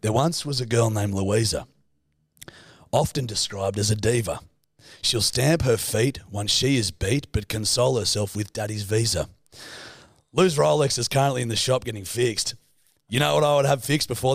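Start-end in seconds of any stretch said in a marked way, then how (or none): 0.0-9.3 reciting a limerick with mock pride; proud clunky rhyming verse. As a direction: read it like a grand poem. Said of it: "I wrote a poem for you".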